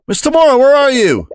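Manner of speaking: searching the halls, calling for the missing teacher. Acted. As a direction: call for her, worried and high.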